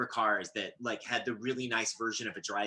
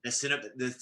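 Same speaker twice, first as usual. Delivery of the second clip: put-on French accent; 3 dB quieter than usual. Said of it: "Can you say that more in a French accent".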